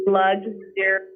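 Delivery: slow, careful title; said slowly. Real, not acted. Guest repeating a song title for the host, slowly. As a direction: draw out the title so it can be understood. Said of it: "could you say that really slowly".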